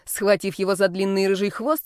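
ordinary delivery, nothing marked

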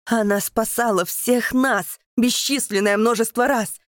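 loud, high accusing plea; impassioned shout. Acted. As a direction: shame the captain loudly. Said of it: "кричит он".

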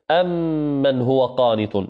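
أم من slowed, mim merged and held with ghunna; slow demo recitation. Shown as a demonstration. Teacher models the verse for students. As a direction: draw out أم من with a nasal hum. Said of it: "كقول الله عز وجل مثلًا".

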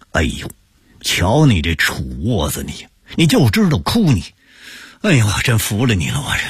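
put-on exasperated scolding of a crying boy; fed-up tutting at the nephew; impatient. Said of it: "王泽民不耐烦地说".

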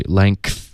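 LENGTH run straight through, k popping into th; linked sounds. Shown as a demonstration. Teacher showing students the linking, joined-up demo. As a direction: say length in one breath, nasal straight into k and th. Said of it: "一定要一口气直接连发过去".

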